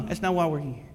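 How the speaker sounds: ordinary delivery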